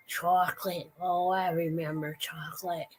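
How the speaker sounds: a lightly voiced old woman recalling chocolate; old lady voice. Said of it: "the old lady's like".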